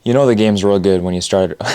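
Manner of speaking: tripping over words; stumbling through the line; stuttering. Real, not acted. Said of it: "when you stutter on your words".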